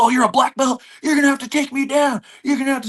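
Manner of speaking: high, mocking irate challenge; irate taunting. Agitated man taunting the black belt to take him down, irate. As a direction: jeer up high, daring him to fight. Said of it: "just so irate".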